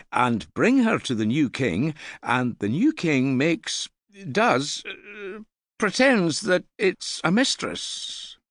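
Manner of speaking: put-on high, fast, keen boy's voice; a young lad bursting to share his news; eager young lad. A narrator's reading. Young man telling the hall about a king-making, eager and high.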